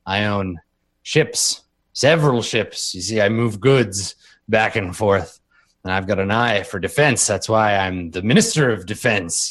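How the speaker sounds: lightly voiced rich bigwig, drawing out his words; boastful minister. Minister telling a droid how he got rich, boastful.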